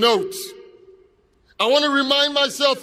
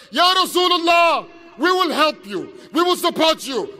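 raised, higher cry of allegiance; impassioned pledge; 4 semitones higher than usual. Acted. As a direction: call out a promise of support. Acted pledge of people from Yathrib.

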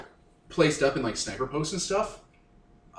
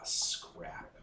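muttered curse; 13 dB quieter than usual. Acted. Character curses under breath.

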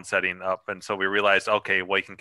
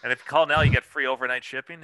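infomercial voice; 4 semitones higher, faster than usual. Pretend. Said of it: "Is that what you're saying?".

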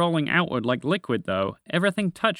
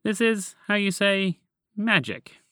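pondering voice; 7 semitones higher, slower than usual. Acted. Human speaks of magic.

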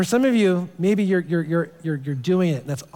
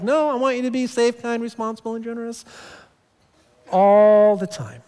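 God's patient voice; 5 semitones higher than usual. Retold or imitated. God voiced answering.

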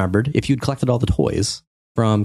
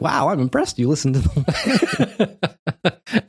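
laughing retelling; 5 semitones higher, faster than usual. Retold or imitated. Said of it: "She's like".

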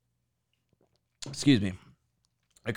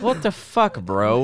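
incredulous retold outburst; slower than usual. Podcaster voicing the chief's reaction, mock incredulous.

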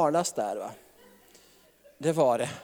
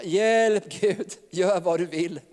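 mock cry for help; slower than usual. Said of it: "när man ropar".

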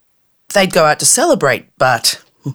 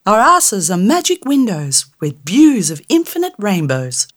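cheeky boasting fairy; 5 semitones higher than usual. Acted. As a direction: brag to tease the girl.

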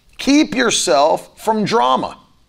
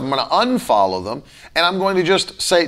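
usual speaking voice

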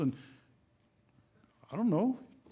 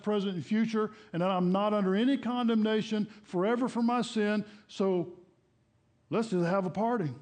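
mock smug objector; 4 semitones higher than usual. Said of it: "somebody who will come along and go".

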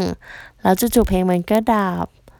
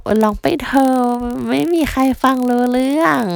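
a lightly higher auntie egging her on; imitating auntie urging; 5 semitones higher than usual. Auntie urging the shy girl, lightly voiced. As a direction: coax her breezily, just go sing. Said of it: "แต่ป้าๆก็แบบ".

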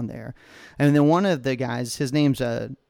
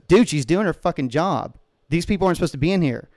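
heated, slightly raised retelling of a yell; retold yelling; 3 semitones higher, 3 dB louder than usual. Bystander defending park ranger to congressman, mildly mock-yelled. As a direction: imitate an indignant bystander telling someone off. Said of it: "he starts yelling at the congressman".

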